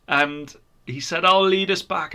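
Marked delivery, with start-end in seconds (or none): 1.3-2.1 firm promise. A narrator's reading. Christian resolving.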